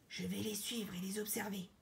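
soft secretive aside; furtive, hushed. Acted. Buffalo plotting to follow the king unnoticed, hushed.

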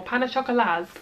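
attempted French pronunciation; lightly put-on French accent. Shown as a demonstration. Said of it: "Excuse my French accent".

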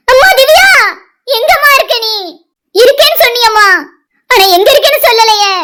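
calling out to her lost daughter in tears; a mother's tearful lament; weeping. Acted. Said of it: "சரி ராணி, அழாத". (அழுதபடி மகளை அழைக்கும் தாய்)

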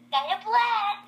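mock exclamation. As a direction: call it out brightly as a launch cry.

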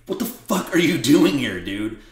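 mock angry outburst, starting loud, then settling; pissed-off Conor McGregor. Conor scolding his injured friend on set, in an angry retold outburst. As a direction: retell a friend's pissed-off scolding, half-acted. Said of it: "he was pissed I was out there".

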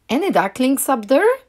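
high, loud searching question; calling out. A narrator's reading. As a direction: call up to hidden ducklings. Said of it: "she called".

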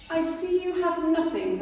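a hint of a grumbling robber; complaining rat. Rat complaining to the duck, grumbling. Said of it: "the rat complained".

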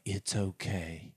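softly reassuring, retold; calm, quiet comforting; soothing dog talk. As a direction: gently reassure a rattled dog, lightly imitated. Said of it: "they were talking to the dog".

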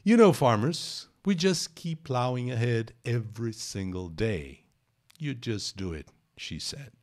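slow, careful English reading of the quote; reading aloud. Acted. Teacher reads the farmer's quote to students. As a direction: read the farmer's words out slowly.

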